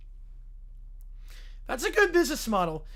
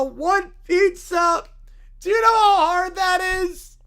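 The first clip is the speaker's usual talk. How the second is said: loud, higher-pitched mock outrage; outraged; 8 semitones higher, 9 dB louder, slower than usual. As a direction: protest loudly at an impossible demand. Character outraged at pizza order.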